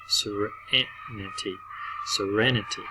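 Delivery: Serenity drawn out slowly; slow teacher demo of Serenity. Shown as a demonstration. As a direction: stretch Serenity out syllable by syllable. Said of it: "a much shorter vowel sound".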